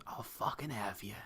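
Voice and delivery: soft, low menacing threat; menacing murmur. Pretend. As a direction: lean in and threaten quietly. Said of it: "Spock leans in and just goes".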